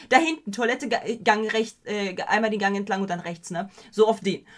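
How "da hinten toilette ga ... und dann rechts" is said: ordinary talk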